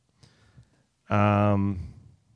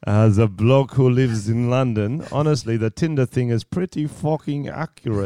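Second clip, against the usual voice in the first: put-on London accent. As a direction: have a half-committed go at a London accent. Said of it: "It's turning into London".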